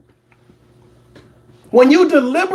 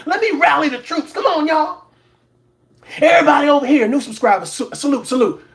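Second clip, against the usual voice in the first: mock rallying call; 2 semitones higher than usual. Imitating Tasha K calling her followers.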